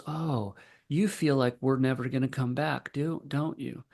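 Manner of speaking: a hint of a soothing father; gentle validating. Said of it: "he just grabs her little hands".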